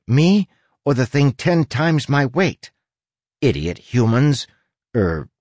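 high, huffy little rat rant; indignant rat voice. Acted. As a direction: complain like an offended small rat. Rat character Huck rants.

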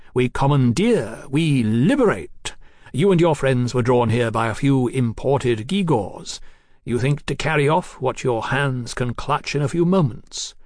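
a mild soapbox harangue, measured out; Marquis exhorting. Acted. Marquis urging Mallory to think bigger, deliberate and emphatic.

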